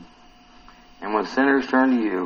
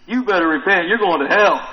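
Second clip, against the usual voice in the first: raised-pitch, louder scolding; mock-mean threat, pushed up and loud; mean warning; 4 semitones higher, 4 dB louder than usual. Preacher shows how one might warn hated people, mock mean. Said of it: "Or would you do it mean?".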